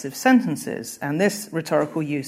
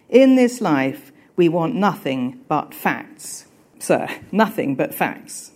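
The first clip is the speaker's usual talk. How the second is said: slow, weighty lecture with a louder first phrase; stern schoolmaster; 4 dB louder, slower than usual. Acted. Gradgrind lectures the schoolroom, slow stern insistence. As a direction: lay down the law word by word.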